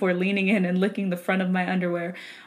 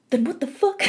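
that voice; 3 semitones higher, faster than usual. Pretend. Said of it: "You can't do that voice without this".

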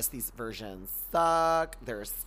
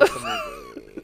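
squeal; 9 dB louder than usual. Acted. Squealed correction.

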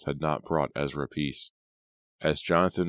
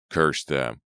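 scream; 5 dB louder than usual. Acted. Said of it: "Ezra screamed".

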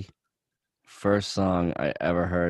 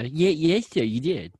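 joking stammered yes sir; mock Colonel Sanders; 8 semitones higher than usual. Friend joining the joke, mock stammered yes sir. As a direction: play a nervous soldier to the Colonel. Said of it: "Yes, Colonel Sanders".

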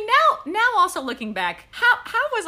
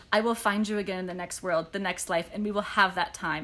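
soft and tender; 6 semitones lower, 7 dB quieter than usual. Acted. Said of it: "Cassian said softly".

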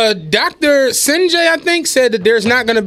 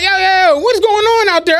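higher-pitched dispatcher checking on a row; calling out; 5 semitones higher than usual. Retold or imitated. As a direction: call over to break up the argument. Dispatcher interrupts the loud argument.

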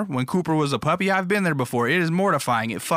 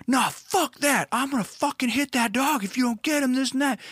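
aggro refusal; 12 semitones higher than usual. Retold or imitated. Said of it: "And he's".

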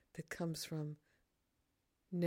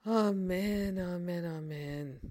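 emphatic amen. Acted. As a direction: sing out the amen with joy. Joyful repeated amen.

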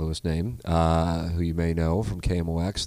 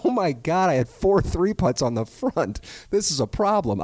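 higher, louder, alarmed self-quote; mock panic; 9 semitones higher, 4 dB louder than usual. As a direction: play up the shock. Retells his own panic after nine holes.

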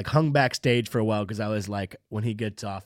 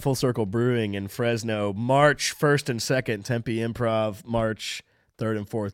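announcer read; slower than usual. Acted. Reading tour dates.

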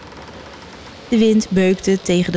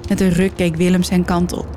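ordinary delivery

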